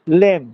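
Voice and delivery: লেম said clearly as lem; lem ending. Shown as a demonstration. Teacher naming the Shantipur lem ending. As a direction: give লেম a crisp e vowel. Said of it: "গেলামটা গেলেম হয়ে গেল".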